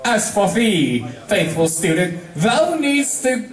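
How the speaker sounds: a monarch gently chiding her student; regal princess. Acted. Celestia addresses Twilight.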